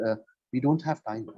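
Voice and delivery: "time" dropped low at the end; falling on time. Shown as a demonstration. Teacher demonstrating a falling end on "time". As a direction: bring the voice down on "time". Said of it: "So time, it came down".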